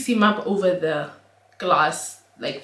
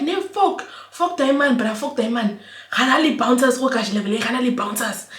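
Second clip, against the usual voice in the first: angry dismissal; 4 semitones higher than usual. Retold or imitated.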